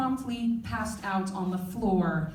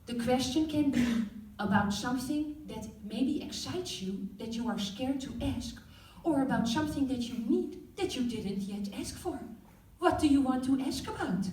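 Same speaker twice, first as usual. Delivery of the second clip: lightly put-on Dutch mom accent; a hint of a Dutch mother's accent; 4 semitones higher than usual. Mom teaching the class sex ed in a light Dutch accent. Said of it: "Sorry, I forgot about my Dutch accent".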